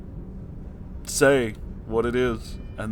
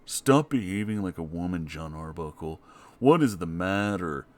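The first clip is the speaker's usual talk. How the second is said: a lightly lowered, scolding Garfield; terrible Garfield impression; 5 semitones lower, 3 dB quieter than usual. Garfield scolds John for panicking, low stern put-on voice. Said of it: "my terrible Garfield impression".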